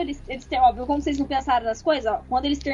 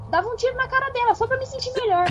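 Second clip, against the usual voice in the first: laughing; 9 semitones higher than usual. Real, not acted. Laughing at own confession.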